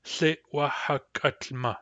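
Tlitwahakutma said slowly syllable by syllable; slow model word. Shown as a demonstration. Teacher building longer words, slowly. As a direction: drawl Tlitwahakutma carefully. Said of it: "for example".

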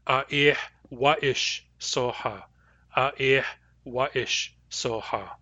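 A ih wa ish soha, said slowly; A ih wa ish soha with the hearsay wa ish; Nuu-chah-nulth phrase. Shown as a demonstration. Teacher saying A ih wa ish soha slowly, then repeating it. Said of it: "I would report it as hearsay".

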